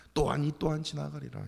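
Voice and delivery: resigned sigh. Shown as a demonstration. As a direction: shrug it off with a sigh. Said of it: "이러지 말라고요".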